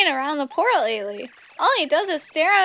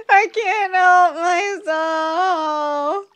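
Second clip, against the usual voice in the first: louder, slow words through laughter; can't stop laughing; gasping out words between giggles; 5 semitones higher, 8 dB louder, much slower than usual. Real, not acted. Still laughing.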